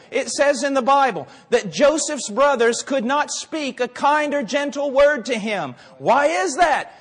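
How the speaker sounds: high, forceful pulpit preaching. Real, not acted. Preacher to congregation on raising the dead, fervent preaching. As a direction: drive it home at full force.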